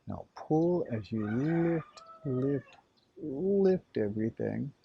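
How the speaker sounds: stretched-out, rising encouragement; urging upward. Real, not acted. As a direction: draw the words out and raise the pitch, coaxing a lift. Urging the lift during exercise.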